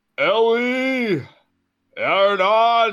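booming, very high, far-carrying yell, drawn out. Calling out to companions across the snow in character: yelling in character.

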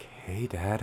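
soft, super calm voice. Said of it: "I put on my, like, super calm voice".

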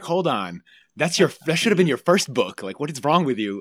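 very loud, high, disbelieving exclamation. Retelling how the agent reacted to the idea: imitating the agent's disbelief. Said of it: "that was sort of the tone".

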